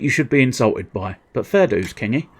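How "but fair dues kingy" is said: put-on light Geordie accent. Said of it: "trying to do a Geordie accent".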